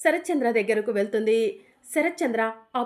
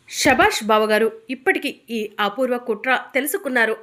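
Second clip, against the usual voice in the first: a louder burst of gloating approval; triumphant praise; 6 dB louder than usual. Acted. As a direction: cheer him on, finally vindicated. Brother-in-law cheers the exposure.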